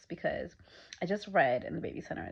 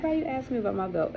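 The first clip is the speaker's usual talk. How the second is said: laughing retort; 6 semitones higher, 4 dB louder than usual. Retold or imitated.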